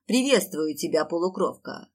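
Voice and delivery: a lightly booming gatekeeper greeting; booming thunder and wind. Acted. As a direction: greet her like rolling thunder. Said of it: "прогремел голос привратника".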